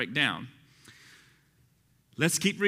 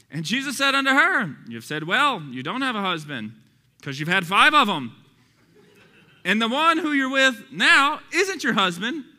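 raised, loud preacher's delivery; emphatic scripture reading; 8 semitones higher, 6 dB louder than usual. Acted. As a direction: read the exchange out with force. Reads the dialogue aloud, raised voice.

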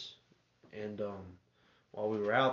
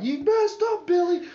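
much higher, louder demonic shriek, slowing at the end; devil voice; 9 dB louder than usual. Retold or imitated. Uncle playing the devil, taunting Billy from the wheel. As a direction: screech it like a possessed devil. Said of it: "he turned into the devil for him".

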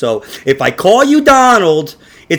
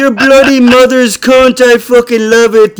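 mock English accent, slower, through a laugh; laughing through a put-on English accent; light hammy English accent; 4 semitones higher, 5 dB louder than usual. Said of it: "I said it in an English accent".

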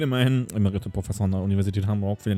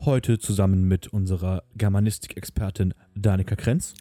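lower, pompous radio-host voice; put-on professor voice; 3 semitones lower than usual. Professor greeting listeners to the poetry circle, put-on voice. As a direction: intone it as a self-important academic presenter. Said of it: "diese Stimme drin zu behalten".

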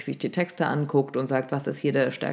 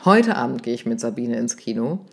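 "Heute" punched at the start, the rest dropping lower; stress on Heute; 3 semitones lower than usual. Shown as a demonstration. Coach showing how emphasis changes the sense, stress on "Heute". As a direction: hit the word "Heute", then let the sentence run on. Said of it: "Ja, und wenn du sagst".

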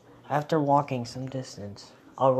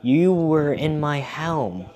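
shouting to be heard; yelling; 7 dB louder than usual. Acted. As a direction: yell it across a distance. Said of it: "so he yelled louder".

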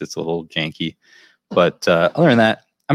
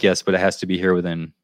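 put-on Russian accent; faster than usual. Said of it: "You gotta keep doing the Russian accent".

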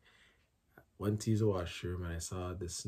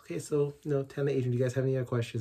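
imitating the midwife; 6 semitones higher, 6 dB louder, much faster than usual. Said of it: "would ask".

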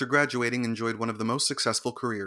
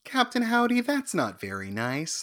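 Exorcist voice impression; 8 semitones higher than usual. Quoting her in The Exorcist, high put-on voice. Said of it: "that voice of hers".

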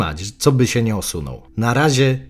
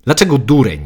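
offended; 2 semitones higher, 5 dB louder than usual. Acted. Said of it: "spytałem urażony".

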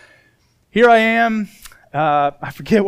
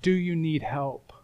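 softer, tender retold question; gentle offer; 6 dB quieter than usual. Principal kneeling to a stranded boy, gentle offer. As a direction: ask it kindly and quietly.

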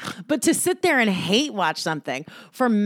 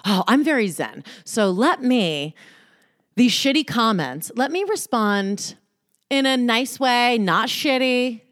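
mock zen self; slower than usual. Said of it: "I thought".

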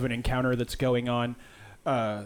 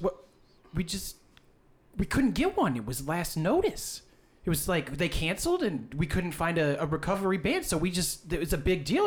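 lightly voiced old lady, higher pitch; 4 semitones higher than usual. Old lady explaining the missing band, a higher, hesitant voice. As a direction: make hesitant excuses as an old woman. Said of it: "and she goes".

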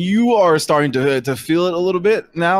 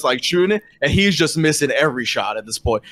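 ordinary talk, nothing marked

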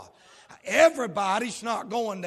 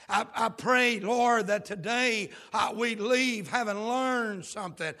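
prayer. Acted. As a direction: pray humbly before the sermon. Pastor leads opening prayer.

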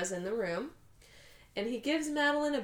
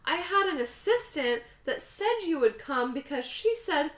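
high, falsely sweet greeting; mock-gracious, pitched up; passive-aggressive; 5 semitones higher than usual. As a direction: imitate a frenemy's sugary put-down. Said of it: "it's so passive-aggressive".

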